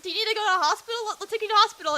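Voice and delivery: high-pitched fretting mom; imitating a panicky mother; freaking out. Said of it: "she was freaking out".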